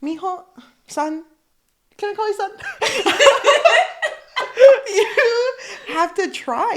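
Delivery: high-pitched coaxing, breaking into laughter; giggly acted grandpa appeal; mock grandfatherly plea. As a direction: crack up while playing a pleading grandpa.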